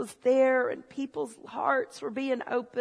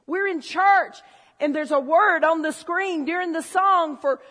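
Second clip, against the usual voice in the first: loud, higher, hammed-up indignation over a typo; mock outrage; 4 semitones higher, 8 dB louder than usual. To the congregation, mocking his old self, hammed-up outrage. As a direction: rant like the spelling ruined everything.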